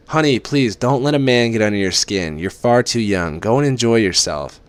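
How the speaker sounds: mother pleading her daughter to visit home; mother's voice. Acted. Mother's voice on the phone.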